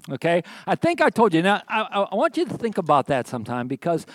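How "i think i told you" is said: smug told-you-so. Acted. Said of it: "basically, "I told you so".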